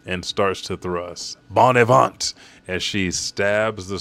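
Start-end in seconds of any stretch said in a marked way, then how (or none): 1.5-2.3 loud, higher battle call; attack cry. Acted. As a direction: shout the attack name as you strike. Acted attack name as she thrusts.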